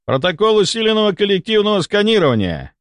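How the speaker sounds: high-pitched formal announcement; announcing. A narrator's reading. Doctor announcing a scanning protocol to colleagues, proclaiming. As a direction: announce it to the whole team. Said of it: "объявил Мелехов".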